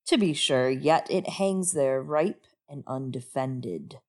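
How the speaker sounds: low, measured reading of a scheming king; book reading. Acted. Reads Balon's speech from book.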